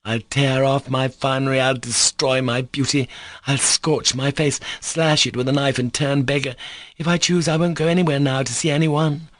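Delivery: hysterical scream. A narrator's reading. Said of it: "in an hysterical scream".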